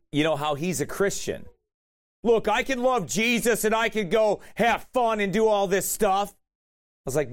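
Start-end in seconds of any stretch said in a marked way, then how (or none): 2.2-6.3 higher, raised-voice mocking retelling; mock screaming. Screaming at the preacher about being Christian, mock screaming. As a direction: imitate a worked-up kid at mild volume. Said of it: "he's screaming at me".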